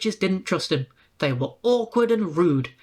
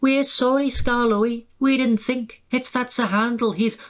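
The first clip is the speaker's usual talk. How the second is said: pleading coaches; 7 semitones higher than usual. A narrator's reading. Coaches apologise, high voiced.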